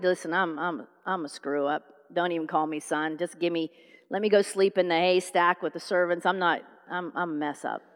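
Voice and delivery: low, soft, downcast confession; dejected prodigal son. Acted. Prodigal son confessing to his father, dejected. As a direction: own up like a hopeless screw-up, low and small.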